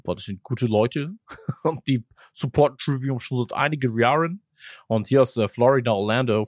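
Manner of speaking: mock American accent in German; lightly put-on American speaking broken German; imitating a singer. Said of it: "als hätte Matt Heavy wirklich selbst von sich auch aus gesagt so".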